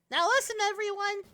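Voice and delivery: lightly cutesy, high and chirpy guild leader; a hint of an obnoxious cutesy girl. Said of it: "I'm attempting to do a pseudo Ruby Rose impression".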